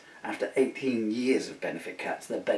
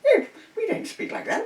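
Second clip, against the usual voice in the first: put-on Arkansas accent; 8 dB louder than usual. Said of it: "American accent".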